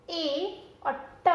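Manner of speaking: letter sounds ए और ट drawn out slowly; slow letter sounding. Shown as a demonstration. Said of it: "एच". (अक्षरों की ध्वनि धीरे धीरे)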